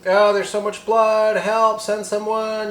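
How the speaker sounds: high, slow, pleading cry for help; a frantic officer begging over the radio; panicked radio call. Retold or imitated. Cop on the radio frantically begging for help. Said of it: "the guy's like".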